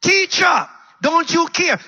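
high-pitched panicked cry; alarmed disciple pleading loudly; panicked plea. Acted. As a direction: call out desperately to wake the teacher.

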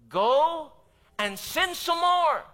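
high, loud, slow ironic misquote; a preacher mocking a misquote of Jesus; mock wrong quote. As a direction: say it as an absurd false version. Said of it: "Is that what Jesus said".

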